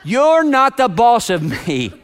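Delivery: put-on drawn-out kid defiance, laughing; playful mock defiance; inner child. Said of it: "voice of that inner child".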